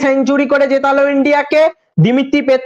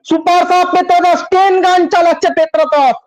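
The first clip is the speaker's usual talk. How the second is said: a little higher and buoyant, chanting the scorer's name; excited celebration; 4 semitones higher than usual. Real, not acted. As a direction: keep riding the goal euphoria. Celebrating goal live commentary. (উত্তেজিত উল্লাস)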